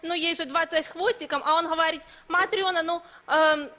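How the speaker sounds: put-on Belarusian accent. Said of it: "белорусским акцентом".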